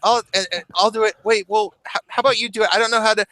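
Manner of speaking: mock dither over who does it; flustered girls. Girls arguing over who must do CPR, flustered babble.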